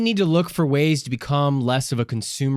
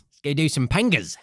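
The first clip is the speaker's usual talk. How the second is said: put-on Australian accent. Host echoing his co-host's line in a mock Australian accent. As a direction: toss it off like a rowdy Aussie larrikin. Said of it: "That's Art the Australian".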